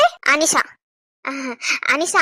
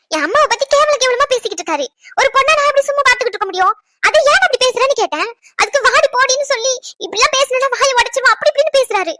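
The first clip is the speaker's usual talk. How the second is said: indignant complaint; 4 semitones higher than usual. Acted. Complains about insults to her mother.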